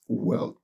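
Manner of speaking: wealth said as "welt"; hard T closing wealth; Nigerian pronunciation. Shown as a demonstration. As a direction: end wealth on a T instead of TH. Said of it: "A typical Nigerian will tell you".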